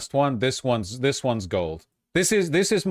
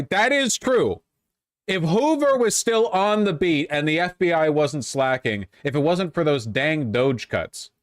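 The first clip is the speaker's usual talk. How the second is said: higher, sarcastic nostalgic whine; mock patriot; 4 semitones higher than usual. Streamer sarcastically mourning the FBI, voice raised. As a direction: play a sarcastic old-timer.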